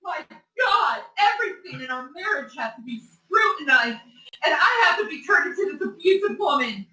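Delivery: crying shout. Real, not acted. Wife shouts in tears.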